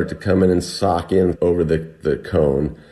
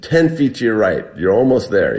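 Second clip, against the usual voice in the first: mildly imitated shout, pitched up; mock yell upward; 4 semitones higher than usual. Climber guiding rescuers' rope throw, mild mock yell. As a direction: retell a called-out direction without full volume. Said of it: "So I yell up".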